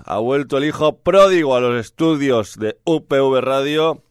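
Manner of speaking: booming wrestling announcer intro; lucha libre announcer. Pretend. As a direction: announce him like a ring introduction. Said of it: "Me estoy metiendo como si fuera un, en la piel de un presentador de lucha libre mexicana".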